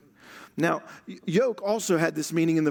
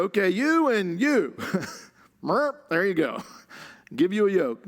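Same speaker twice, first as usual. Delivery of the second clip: careless assigning; 3 semitones higher than usual. Pretend. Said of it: "Jesus, um, doesn't go".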